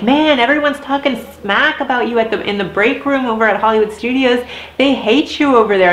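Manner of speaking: lightly voiced gossiping Aladdin; imitated gossipy coworker. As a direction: pass on the juicy news, a touch dramatic. Coworker gossips about her hate.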